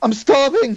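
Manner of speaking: shrill, desperate, very high, piercing scream. Voicing a trapped person calling from under a trapdoor: screaming. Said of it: "the screams are extremely loud here".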